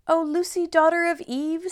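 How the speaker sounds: high flustered faun; flustered fawn. Acted. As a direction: bluster like a nervous faun. Fawn dialogue.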